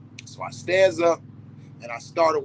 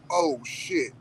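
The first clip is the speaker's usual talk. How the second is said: high, startled oh shit; sudden realization; 10 semitones higher than usual. Retold or imitated. Comic realizing birds talk, high startled gasp. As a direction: it dawns on him all at once. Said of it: "I'm going".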